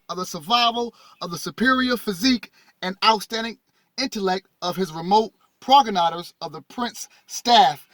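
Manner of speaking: measured, phrase-by-phrase read-aloud. Acted. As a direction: read the text out to an audience. Reads text aloud to audience.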